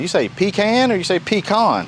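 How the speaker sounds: pecan first as pee-KAN, then as pee-KAHN; two ways to say pecan. Shown as a demonstration. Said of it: "How do you say pecan?".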